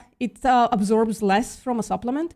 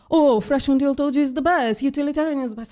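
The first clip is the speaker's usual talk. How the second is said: sing-song parody of an ethics bro; higher, mocking the ethics talk; mocking quote; 5 semitones higher, faster than usual. Mocking others' ethics claims.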